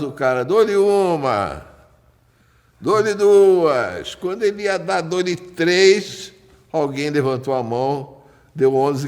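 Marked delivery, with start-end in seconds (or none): 0.4-4.2 auctioneer. Retold or imitated. Auctioneer calling bids. 5.0-6.3 auctioneer. Retold or imitated. Auctioneer calling bids.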